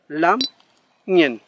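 lam and ñen with ng as a single nasal; one sound ng. Shown as a demonstration. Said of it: "La N G se pronuncia como una sola consonante".

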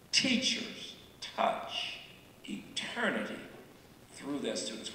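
hushed repeat. Shown as a demonstration. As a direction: breathe the line out like a secret. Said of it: "I now understand that teachers touch eternity".

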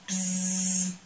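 a bee buzzing at the bear's ear. Acted. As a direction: buzz it close to the ear. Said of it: "usłyszał koło ucha".

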